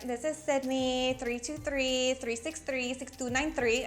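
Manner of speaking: put-on light Cuban-American Miami accent. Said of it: "I used to have a Cuban accent".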